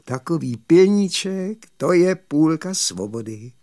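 pleased robber's reply, lightly voiced; mildly self-satisfied; contented. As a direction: answer with a touch of satisfaction. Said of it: "odvětil spokojeně Krutibrko".

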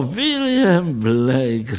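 "William Blake" drawn out slowly, relishing each syllable; slow, admiring "William Blake"; savoring the name. Acted. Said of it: "řekl doktor Pingicer".

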